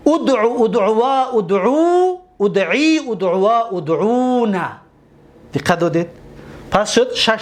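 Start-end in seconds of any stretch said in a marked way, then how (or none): 0.1-4.7 rhythmic list of ادعو forms; reciting the paradigm. Shown as a demonstration. Teacher drilling students through the imperative forms, chanted. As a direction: chant each form for the class to repeat. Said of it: "یک بار دیگر".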